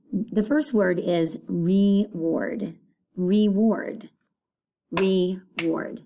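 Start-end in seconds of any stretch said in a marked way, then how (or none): 1.5-6.0 reward said slowly, split into re and ward; said slowly for syllables. Shown as a demonstration. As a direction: pronounce reward clearly in two beats. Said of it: "Two syllables".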